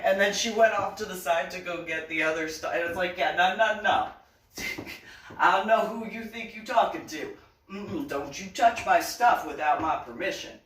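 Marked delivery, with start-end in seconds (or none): 3.2-10.6 sassy attitude. Retold or imitated. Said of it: "got an attitude".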